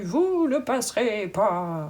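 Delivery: very slow, solemn, epic proclaiming wizard voice.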